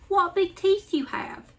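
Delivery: put-on high, slow child's voice; wary little girl. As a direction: say it slowly, growing scared. Girl frightened by the teeth.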